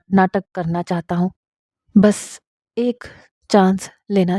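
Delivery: tender, halting confession of love; stammering husband confessing. Acted. Husband confesses his love to his wife, halting and tender. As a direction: stumble through the confession gently.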